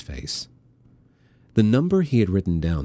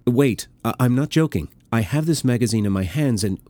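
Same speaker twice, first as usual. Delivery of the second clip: urgent plea; 5 semitones higher, 3 dB louder than usual. Acted. Milos pleading as Eva dismisses him.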